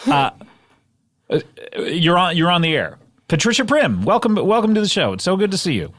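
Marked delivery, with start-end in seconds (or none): 3.3-5.9 high, showy host welcome; announcer welcome. Acted. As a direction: greet the guest grandly. Host repeats grand intro.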